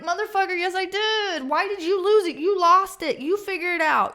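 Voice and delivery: fed-up outburst at the office; indignant retort. Retold or imitated. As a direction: snap back at the clerk who lost it. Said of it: "You're like".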